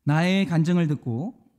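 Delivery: slow, deliberate read-out with long pauses; solemn question reading. Acted. Preacher reading application questions to the congregation, solemn and measured. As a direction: put each phrase to the congregation, slowly.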